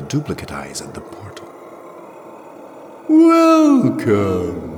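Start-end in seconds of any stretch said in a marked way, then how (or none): 3.1-4.8 loud, ringing call, drawn out; resonant otherworldly voice. A narrator's reading. Mirrored Jirel greets Jirel at the portal, resonant and ringing. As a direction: call it out high and echoing. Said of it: "her voice deep and resonant and clear".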